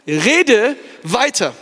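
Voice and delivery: slow, weighty and drawn out; solemn divine command. Acted. God challenges Paul to keep speaking, slow and weighty. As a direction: hand down the command with gravity.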